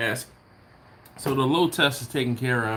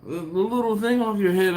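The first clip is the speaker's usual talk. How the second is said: imitating wife; 10 semitones higher, 4 dB louder than usual. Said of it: "She said".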